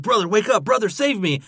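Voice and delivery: high, loud hammed-up plea; mock pleading Enchantress. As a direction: ham up a desperate sister calling for her brother.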